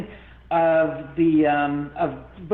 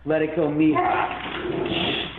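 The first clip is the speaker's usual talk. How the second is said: ghost voice; much slower than usual. Retold or imitated. Dead father's voice on the videotape, slow and breathy. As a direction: drag it out like a voice on tape. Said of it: "You hear the same voice going".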